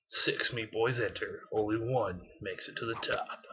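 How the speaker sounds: movie trailer voice. Pretend. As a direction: announce it like an epic movie trailer. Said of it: "there was my movie trailer voice".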